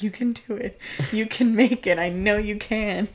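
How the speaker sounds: encouraging. Retold or imitated. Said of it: "encouraging the car".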